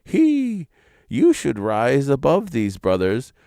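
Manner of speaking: high, sneering voice; a high, scornful sneer. A narrator's reading. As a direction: sneer down at the brother. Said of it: "heard to sneer and to say".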